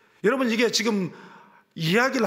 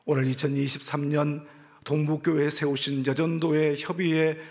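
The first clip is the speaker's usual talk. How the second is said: closing prayer; 5 semitones lower than usual. Real, not acted.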